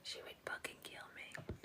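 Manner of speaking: breathless, voiceless whisper through real laughter; helpless laughing. Real, not acted. Streamer picturing the woman's reaction, helplessly laughing. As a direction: laugh so hard the words barely come out. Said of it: "I'm laughing so hard".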